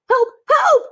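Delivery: very high, loud desperate shriek; panicked cry for help. A narrator's reading. Cook with a mouse in his knickers screams for help. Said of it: "said the man with the mouse".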